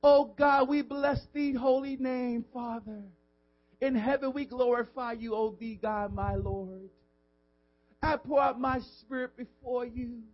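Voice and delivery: pompous, old-fashioned put-on piety; showy hypocrite praying. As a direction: pray to be seen, stretching the holy words. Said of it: "Wow, they praying".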